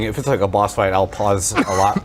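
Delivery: talking through a mouthful of food; words round a bite of bagel; mouth full. Real, not acted. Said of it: "I don't wanna talk with my mouth full".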